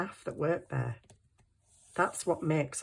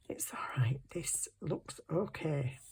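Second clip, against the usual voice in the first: whisper; 6 dB quieter than usual. Real, not acted. Whispers to herself over drawing.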